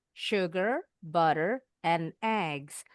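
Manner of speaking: "sugar" and "butter" rising, "eggs" falling; list intonation. Shown as a demonstration. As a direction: lift "sugar" and "butter", drop "eggs" to finish. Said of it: "Kalau intonasinya udah turun, tanda titik". ("sugar", "butter" naik, "eggs" turun)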